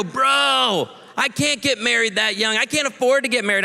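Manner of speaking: high-pitched imitated whine of objection; mock protest. Young guys pushing back on marrying young, mock protest. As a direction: protest like an incredulous young guy, lightly hammed up.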